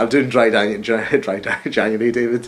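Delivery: stumbling imitation of Dundee speech; mock Dundee accent. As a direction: put on a light Dundee accent, tripping over it. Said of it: "She's a stupid accent".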